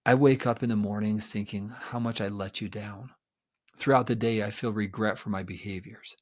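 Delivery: soft, low, heartfelt confession; remorseful apology. Shown as a demonstration. Therapist voicing a husband's sincere apology, soft and remorseful. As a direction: own every word quietly. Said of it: "I say something to the effect of".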